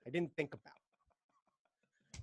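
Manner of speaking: slow breathy whisper to himself; a pimp whispering his regret. Retold or imitated. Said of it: "Their one pimp is like".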